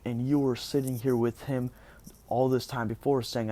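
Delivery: retold angry accusation. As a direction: imitate someone heatedly accusing. Acted accusation in retold quarrel.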